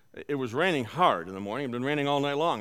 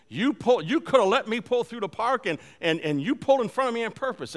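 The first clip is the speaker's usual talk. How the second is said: higher, louder scolding retold; angry lady; 8 semitones higher, 5 dB louder than usual. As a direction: imitate an angry woman laying into someone. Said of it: "she is one angry lady".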